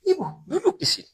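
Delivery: high-pitched, eager invitation; familiar welcome. Retold or imitated. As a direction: imitate urging an honoured guest to sit. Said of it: "Nabi begitu akrab". (ajakan akrab bernada tinggi)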